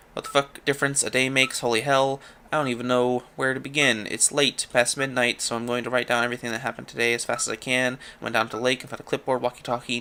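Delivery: quick, lightly skimmed read-through of a diary; journal read-aloud. Acted. Reads a journal entry aloud.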